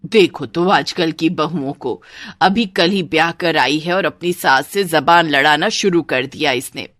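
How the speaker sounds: lightly voiced indignant saas; grumbling mother-in-law. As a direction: complain about today's brides. (हल्की सी चिढ़ी सास)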